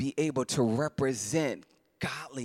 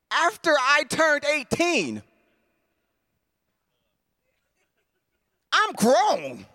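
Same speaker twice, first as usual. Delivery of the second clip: high, slow, voice straining with real tears; overwhelmed, pitch climbing as tears well up; choked up; 10 semitones higher, 4 dB louder, slower than usual. Real, not acted. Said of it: "I just started crying".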